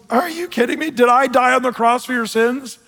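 exasperated challenge that starts high; fired-up Paul. Acted. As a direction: act out an apostle's incredulous outburst. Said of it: "Paul's fired up".

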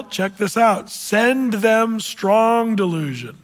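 slow, weighty Bible reading; scripture reading. Acted. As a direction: lean on each phrase and slow toward the end.

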